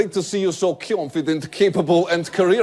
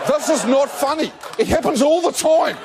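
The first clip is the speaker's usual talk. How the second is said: indignant whine; 7 semitones higher than usual. Acted. New Zealand complaining about jokes, high indignant whine. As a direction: protest like you're sick of being mocked.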